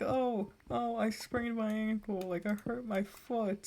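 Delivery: a hammed-up, slow kid's whine; mock whining cousin. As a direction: imitate the dramatic kid hamming it up. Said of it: "He kept on being like".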